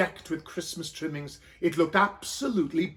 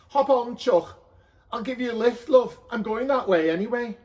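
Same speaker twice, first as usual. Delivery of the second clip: higher, louder friendly helper; cheery donkey handler; 5 semitones higher, 4 dB louder than usual. Acted. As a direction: offer the lift, chummy and bright. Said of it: "he said".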